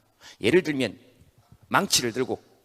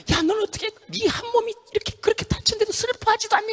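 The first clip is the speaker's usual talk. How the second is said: very high, tiny accusing voice; high squeaky organs. Acted. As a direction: squeak the blame at the head. (머리를 탓하는 아주 높은 가성)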